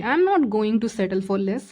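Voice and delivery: each word laid down slowly and firmly; a resolved refusal, spoken deliberately; firm slow declaration. Pretend. Reader voicing the viewer refusing to settle, slow and firm.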